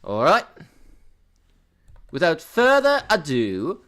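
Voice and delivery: slow mock-British announcement; playful British accent; put-on British accent. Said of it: "I'm doing the British accent again".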